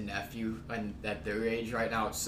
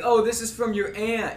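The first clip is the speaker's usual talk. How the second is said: high mock sweetness; 10 semitones higher, 4 dB louder than usual. Mocking a relative's gift announcement.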